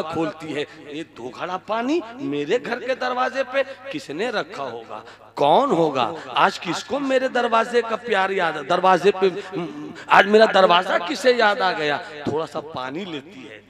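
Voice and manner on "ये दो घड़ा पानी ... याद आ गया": wondering aloud. Acted. Woman wonders who left water.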